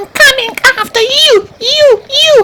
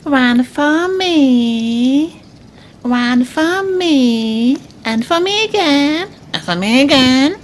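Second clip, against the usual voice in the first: low begging; 7 semitones lower than usual. Acted. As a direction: stretch each word out, pitched way down. Animal voiced, begging.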